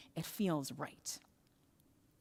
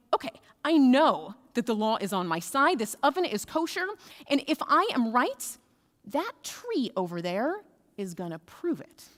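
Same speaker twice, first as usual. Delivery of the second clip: exasperated, emphatic insistence, higher-pitched; frustrated; 4 semitones higher, 5 dB louder than usual. Acted. Frustrated rabbi insisting to his colleagues he is right, exasperated. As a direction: argue your case, pushing the key words. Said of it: "he gets really frustrated".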